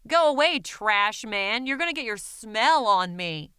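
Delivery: disgusted shout. Acted. Townspeople yelling at the trash man, loud and disgusted. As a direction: shove him off with disgust.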